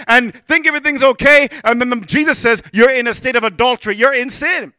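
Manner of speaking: emphatic, insistent sermon delivery; preaching. Real, not acted. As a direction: drive the rebuke home to the congregation. Preaches against divorce.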